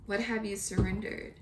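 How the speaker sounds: ordinary delivery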